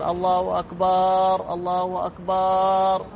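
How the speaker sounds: أكبر held as a long "akbaaar", like some muezzins; muezzin stretching the ba. Retold or imitated. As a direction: imitate a muezzin drawing out the end of أكبر. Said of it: "يمد الباء". (مد باء "أكبر" كبعض المؤذنين)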